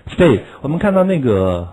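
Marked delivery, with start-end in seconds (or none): 0.1-0.4 "state" said once more, louder, falling firmly; model word. Shown as a demonstration. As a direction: hit "state" hard and let it drop. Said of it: "we have state".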